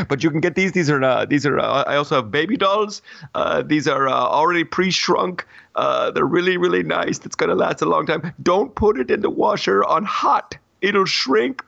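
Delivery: a hint of the high King Julian voice; lightly voiced cartoon king. Mock mayor hawks T-shirts, lightly high cartoon voice. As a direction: pitch shirts like a giddy cartoon salesman. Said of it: "I don't know why I'm talking like this".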